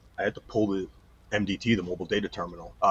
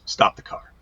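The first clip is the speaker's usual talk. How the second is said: low hushed order; 4 dB louder than usual. Retold or imitated. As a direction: say it under your breath, firm. Training officer voiced in story.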